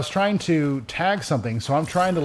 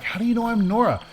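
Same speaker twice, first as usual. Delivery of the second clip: higher-pitched, put-upon retort; indignant, raised-pitch question; mildly annoyed retort; 9 semitones higher, faster than usual. Retold or imitated. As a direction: act out being annoyed at a silly assumption. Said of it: "kind of annoyed that the game just".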